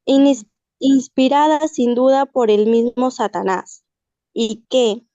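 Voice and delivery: deliberate dramatic reading, drawn out toward the end; story reading. Acted. Student reading a character's speech to the class, deliberate dramatic reading. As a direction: read the speech aloud slowly and deliberately.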